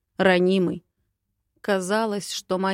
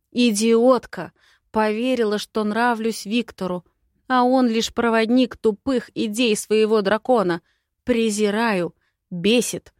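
louder, angry rant at herself; furious outburst; 3 semitones higher, 4 dB louder than usual. Acted. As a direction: spit out the self-reproach in rage. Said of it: "Ярость рвалась изнутри".

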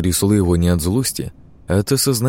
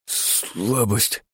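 much softer, mumbled word; 2 semitones higher, 6 dB quieter than usual. A narrator's reading. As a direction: barely get it out. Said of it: "пробубнил он". (пробубнил тихо)

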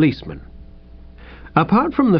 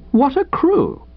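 rising indignation; 12 semitones higher, slower than usual. A narrator's reading. Repeated with more heat.

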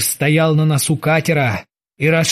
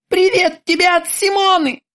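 much higher sweet taunting voice; mocking terminator; 13 semitones higher than usual. A narrator's reading. The terminator taunts Krueger in a sweet high voice. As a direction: coo it with menace.

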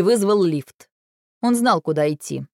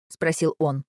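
ordinary delivery

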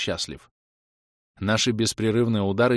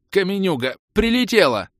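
high-pitched dazed outcry; stunned; 11 semitones higher, 6 dB louder than usual. A narrator's reading. Felled fighter explains the rock, stunned. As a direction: blurt it loudly, utterly flabbergasted. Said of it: "находясь в полном обалдении от случившегося".

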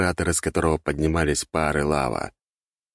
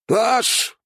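very high, louder shout; furious scream; 4 dB louder than usual. A narrator's reading. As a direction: hurl the denial. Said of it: "закричал Артега".

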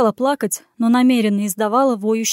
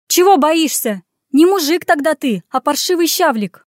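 higher, louder angry taunt; 5 semitones higher, 5 dB louder than usual. Acted. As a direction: jeer at him scornfully. Heroine taunts the prince.

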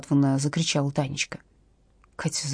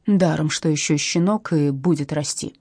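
ordinary delivery, nothing marked

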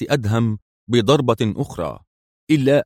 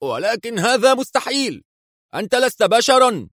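high, panicked disbelief; backing away in terror, voice up high; nervous cry; 13 semitones higher than usual. A narrator's reading. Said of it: "ثم هتف في عصبية". (هتاف عصبي مذعور بصوت حاد عالٍ)

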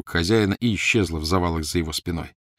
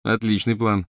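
mock admiration; 3 semitones higher than usual. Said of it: "с насмешливым восхищением".

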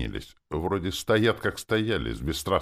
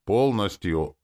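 weighty; 5 semitones higher, 5 dB louder, slower than usual. A narrator's reading. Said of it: "добавил веско".

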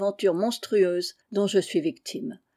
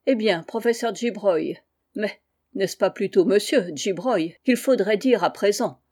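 bitter smile. Acted. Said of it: "murmura-t-elle avec son sourire amer".

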